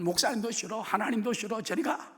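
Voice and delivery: 토라진 신자 흉내; sulky brush-off. Retold or imitated. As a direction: brush everyone off like a sulking child. Mimicking a sulky believer.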